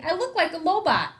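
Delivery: put-on boy angrily complaining to mom; angry. A narrator's reading. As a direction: spit out the insult at himself. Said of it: "I said angrily".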